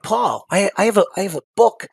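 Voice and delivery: pleading that the book is full of supplies; incredulous protest. Retold or imitated. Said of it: "And I'm like".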